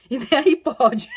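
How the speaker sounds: said through real laughter; laughing. Real, not acted. Joking to viewers about the iPhone gift, laughing. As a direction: giggle the words out. Cracking up at own slip.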